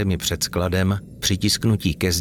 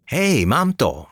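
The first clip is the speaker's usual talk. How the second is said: exclaimed; 6 semitones higher, slower than usual. A narrator's reading. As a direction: shout it out, thrilled at the discovery. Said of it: "vykřikl".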